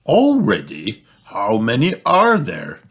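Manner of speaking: a mild grumble; mildly fed up at the batteries; grumbling. Acted. Father grumbling at batteries pouring out, mild grumble. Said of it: "grumbles Daddy Pig".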